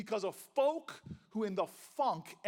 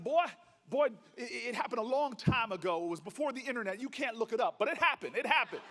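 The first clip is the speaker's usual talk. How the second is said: indignant; 4 dB louder, faster than usual. Retold or imitated. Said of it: "he looks at me indignant".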